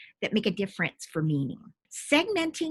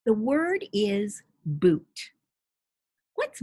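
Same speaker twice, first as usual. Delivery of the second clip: slow, clear teacher prompt; 3 semitones higher, slower than usual. Shown as a demonstration. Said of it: "If I say".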